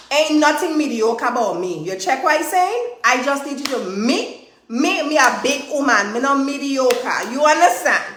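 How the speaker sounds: light Virgin Islands Caribbean accent, playful; Virgin Island twang. Shown as a demonstration. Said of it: "Let me say it in Virgin Island twang".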